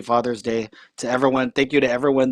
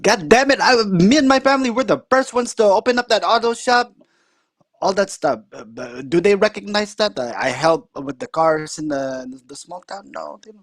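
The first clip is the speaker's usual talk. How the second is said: high, louder imitation of a griping uncle; indignant uncle; 7 semitones higher, 3 dB louder than usual. Uncle voiced in story.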